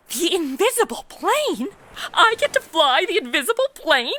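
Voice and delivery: gasping, thrilled, voice jumps up; can't believe her luck; excited gasp. Acted. Excited about flying plane.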